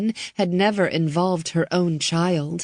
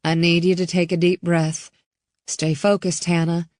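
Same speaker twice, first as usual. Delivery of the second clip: a steady, reassuring mother's voice; forced calm. Acted. Mother steadying her scared girl, lightly calm. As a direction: keep it calm though frightened. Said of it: "She struggled to keep her voice calm".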